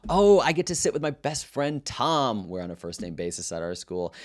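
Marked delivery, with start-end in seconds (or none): 0.1-2.5 high, loud, sugary fake-excited teen voice; mock excitement. Student taunting his teacher at the assembly, fake-thrilled and higher. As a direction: gush over your best friend, dripping with mockery.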